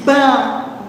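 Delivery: "Bandeira" broken into ban... dei... ra; counting out syllables. Shown as a demonstration. Teacher counting syllables for pupils, "Bandeira" split as ban, dei, ra. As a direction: separate "Bandeira" into three measured beats with pauses. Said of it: "contar quantas sílabas tem a palavra bandeira".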